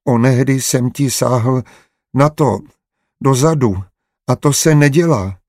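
put-on a small boy confessing through tears; tearful little boy. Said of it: "špitl plačtivě". (plačtivý dětský hlas, výš a pomaleji)

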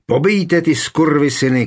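rally the men to kill them; yelling. Acted. Wounded Michal yells at the men to slaughter the enemy. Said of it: "křičel jednooký Michal".

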